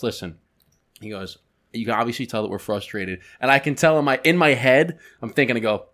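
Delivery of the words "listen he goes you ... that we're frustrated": lower, softer, measured voice; composed CEO. Retold or imitated. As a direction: imitate a boss calmly stepping in. CEO calmly chimes in, retold.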